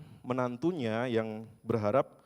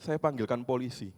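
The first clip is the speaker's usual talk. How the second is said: put-on threatening old woman. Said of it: "Sambil dia berkata".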